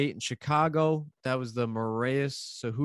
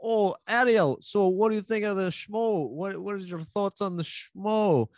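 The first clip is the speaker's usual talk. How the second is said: higher, louder sweet-talking interviewer voice; Missus Gibson style; 6 semitones higher, 4 dB louder than usual. Retold or imitated. Till reeling Helwani in with high, sugary questions. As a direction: coax him in like a nosy neighbour. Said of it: "the Missus Gibson style".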